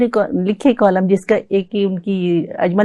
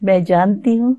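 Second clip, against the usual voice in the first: stately nazm recitation. Acted. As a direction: recite the woman's reply gently. Woman's reply in nazm.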